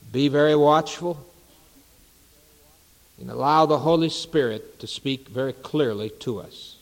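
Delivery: earnest, measured prayer with long pauses; public prayer. Real, not acted. Pastor prays to Jesus for the evening service, earnest and unhurried. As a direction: pray aloud in deliberate phrases, settling at the close.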